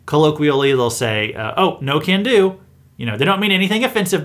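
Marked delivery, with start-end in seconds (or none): 1.5-2.6 casual folksy shrug of a line, slightly higher and slower. Retold or imitated. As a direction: toss it off like an easygoing country phrase. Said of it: "a folksy way of saying".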